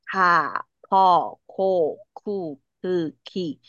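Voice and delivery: "卡、扣、库、克、蒂" with a slightly breath-puffed k at each start; spaced k syllables with extra air; 气体多一点. Shown as a demonstration. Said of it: "第一个字稍微气体就会多一点". (卡、扣、库、克、蒂每个开头稍微送气)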